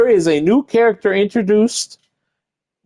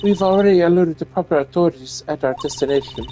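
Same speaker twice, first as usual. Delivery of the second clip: the courteous stewardess, pitched up; flight attendant; 3 semitones lower than usual. Acted. Attendant informs Edgeworth of custody.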